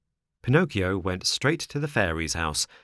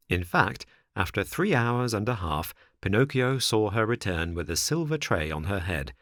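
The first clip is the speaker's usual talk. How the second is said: ordinary delivery, nothing marked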